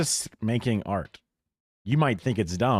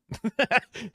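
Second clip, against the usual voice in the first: sudden high-pitched laugh at chat; high burst of laughter; 13 semitones higher than usual. Real, not acted. Streamer laughing at a cheeky chat message, high burst of laughter.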